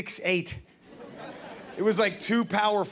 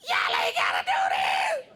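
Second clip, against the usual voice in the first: solemn quote; 13 semitones lower than usual. Shown as a demonstration. Comic recasts her plea as wisdom, mock-solemn low voice. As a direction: intone it like a wise proverb. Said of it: "poignant statement".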